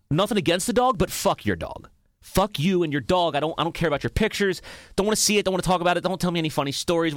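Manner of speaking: fed up, brushing every dog story off; blunt inner rant. Pretend. Podcaster's private thoughts about listeners' dogs, fed-up rant. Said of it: "in my head, I go".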